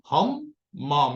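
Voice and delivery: हम माँ with weight on the m sound; stressed mem. Shown as a demonstration. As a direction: lean into the doubled m of हम माँ. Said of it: "मेम की आवाज के ऊपर जोर देना".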